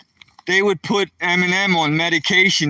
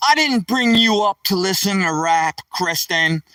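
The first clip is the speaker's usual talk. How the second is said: retold yelling; 4 semitones higher than usual. Dad yelling at daughter over rap, outraged. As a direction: rant at her like an outraged dad. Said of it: "I started yelling at her".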